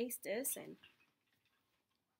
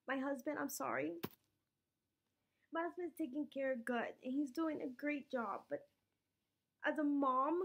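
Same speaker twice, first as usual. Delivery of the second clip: higher, tearful voice, close to crying; real tears held back, voice pitched up; emotional, near tears; 5 semitones higher than usual. Real, not acted. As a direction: push through the words while choking up. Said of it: "I'm a little emotional today".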